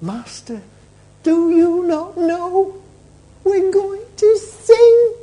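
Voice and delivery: high, slow, drawn-out wail; acted fear. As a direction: wail it like a frightened disciple. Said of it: "It's called fear".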